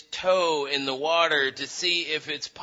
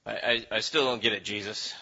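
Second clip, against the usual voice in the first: lower, fast, stammering bewilderment; confused Nicodemus; 6 semitones lower, faster than usual. Retold or imitated. Nicodemus blankly answering Jesus, stammering confused voice. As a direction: stumble out the words, lost. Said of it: "blank stare and going".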